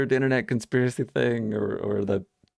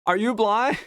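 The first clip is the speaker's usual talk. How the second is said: higher and loud, bluntly repeated; loud repeated question; 11 semitones higher than usual. Retold or imitated. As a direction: ask it again, loud and blunt. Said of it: "they asked again".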